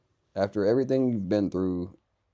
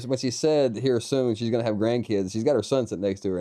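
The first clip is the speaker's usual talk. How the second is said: higher-pitched, amused explaining; real amusement, laughing; 4 semitones higher, 3 dB louder than usual. Real, not acted. Host explaining to viewers why he's laughing, amused. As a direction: explain yourself while fighting back a laugh. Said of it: "I'm laughing 'cause her".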